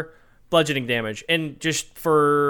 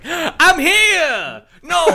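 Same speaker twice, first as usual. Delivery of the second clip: squeaky monster voice; 12 semitones higher, 5 dB louder, much slower than usual. Retold or imitated. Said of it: "He's like".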